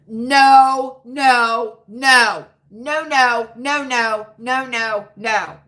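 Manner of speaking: string of firm noes, fading; emphatic refusal. Real, not acted. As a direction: shut it down firmly, then taper off. Refusing what a commenter says.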